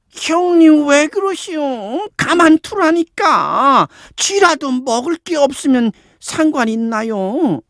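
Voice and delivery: high, drawn-out drowsy whine; sleepy voice. A narrator's reading. Younger woman feigning sleep complains to the wife, sleepy high whine. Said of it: "졸리는 목소리로".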